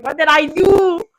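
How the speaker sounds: slow, puzzled question; confused. Retold or imitated. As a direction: ask it baffled, slowly. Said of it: "I'm just there confused".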